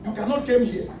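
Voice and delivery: "come here" said as "kem hee-ya"; mock-fancy "kem" for "come"; wicked English. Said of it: "I spoke wicked English".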